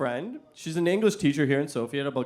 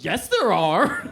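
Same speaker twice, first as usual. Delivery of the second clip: dry retort; 3 semitones higher, 3 dB louder, much slower than usual. Retold or imitated.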